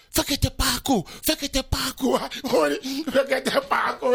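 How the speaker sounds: high-pitched imitation of relatives calling his name; retold calling out. Relatives at the airport calling his name, retold as high calls. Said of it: "ez ki kiabál a nevem?".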